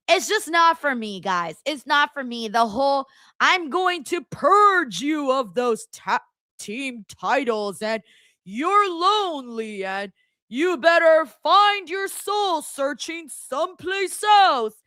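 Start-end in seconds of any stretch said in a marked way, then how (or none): 3.4-14.7 slow, overwrought wrestling-promo voice, mildly mocked; mocking promo delivery. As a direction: drag out the scripted promo lines with a sneer. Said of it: "when people talk like that".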